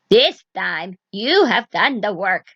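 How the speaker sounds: slow, grudging witch voice; grudging old witch. Acted. Witch to Vasilisa, slow and grudging. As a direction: admit it through your teeth, slowly.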